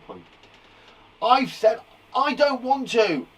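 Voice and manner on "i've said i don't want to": slow, high-pitched mock shout. Shown as a demonstration. Teacher voicing a story girl who shouts, mock shouted refusal. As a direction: raise the voice in stubborn protest. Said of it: "shows shouting".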